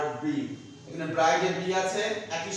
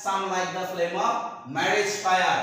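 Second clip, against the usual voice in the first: slow poem recitation; much slower than usual. Shown as a demonstration. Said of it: "simile কোথায়".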